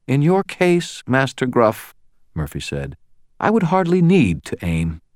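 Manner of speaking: high, cool menacing threat; cold threat. A narrator's reading. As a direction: deliver the threat coolly. Murphy threatening.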